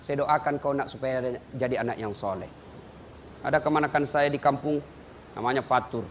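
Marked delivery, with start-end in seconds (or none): 0.0-2.5 low, softened elder's answer; tender reassurance. Acted. Grandparent telling a child about the prayer, low and soft.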